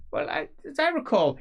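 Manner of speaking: a hint of smug aristocrat; Feuerbach, smug. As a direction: needle the old man. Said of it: "Feuerbach says".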